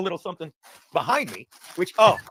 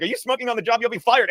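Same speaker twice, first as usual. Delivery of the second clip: scolding boss; 4 semitones higher than usual. Retold or imitated. Retelling a Simpsons scene to Peter, mock scolding. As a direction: play a cartoon boss catching an employee out. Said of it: "the boss comes over like".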